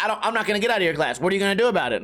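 fast, defiant back-talk; defiant student. Retold or imitated. Student defying the teacher, fast defiant sneer. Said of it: "it's like".

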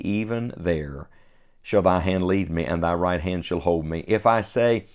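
measured, solemn reading of King James verses; scripture reading. Acted. Reads Psalm 139 aloud.

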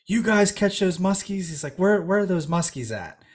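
put-on a light Caribbean accent on the fisherman's questions; lightly voiced Caribbean dockhand asking. Fisherman on the dock asking about the fish, light Caribbean accent. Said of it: "think about the Caribbean accent now".

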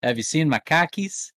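hammed-up Boston Yankee; Boston accent. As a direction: put on a playful Boston accent. Mocking Boston accent bit.

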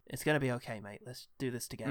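softening, quiet word to a mate; gently steady him as you go; reassuring. Retold or imitated. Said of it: "that little moment of just reassurance".

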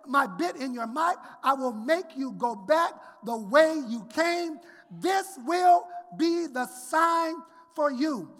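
pulpit scripture reading; preacher reading; sermon reading. Acted. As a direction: read it to the congregation.

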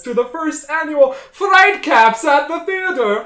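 high, loud spooky host delivery; jack o lantern voice. Acted. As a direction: boom the show title like a ghoul.

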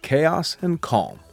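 smooth, measured brand ad read over music; promo voiceover. Acted. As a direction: read it like a slick company film.

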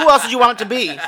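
laughing. Retold or imitated. Retelling own reply, laughing.

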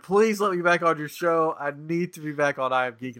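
exaggerated begging to be let back on; begging and pleading. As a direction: mock-desperate plea, starting high and loud. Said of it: "he's begging and pleading".

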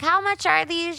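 mock polite customer. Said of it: "I'm like".

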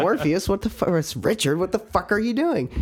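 outraged but still joking; mock outrage. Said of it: "that's what I said".

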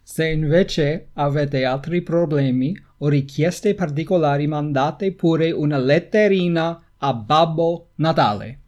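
dramatic, formal Italian declamation; heightened Italian reading. Acted. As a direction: read the Italian with a touch of theatre. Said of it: "the Italian is very heightened".

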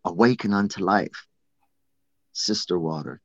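ritual invocation. Shown as a demonstration. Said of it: "and you say".

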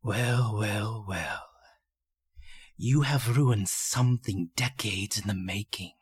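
low, menacing villain full of contempt; contemptuous villain, measured and low; deep contempt. A narrator's reading. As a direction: sneer it slowly, savoring each word. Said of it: "whispers with a voice of deepest contempt".

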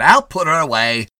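cocky attendant. A narrator's reading. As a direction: take over with insolent ease.

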